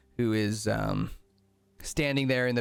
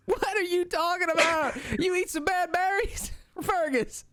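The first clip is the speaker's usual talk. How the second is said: much higher, squeaky little kobold; cheerful high kobold pal. Acted. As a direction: play a chirpy goblin-like kobold. GM voices kobold Dom laughing.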